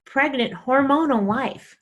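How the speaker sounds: mock-livid wife laying down the law. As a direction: scold him word by word, slowing down. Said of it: "So I'm livid".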